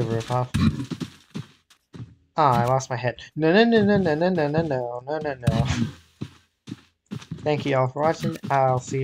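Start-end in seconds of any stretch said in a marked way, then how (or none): 3.3-5.7 panicked no. Real, not acted. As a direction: cry out in panic. Losing head in game.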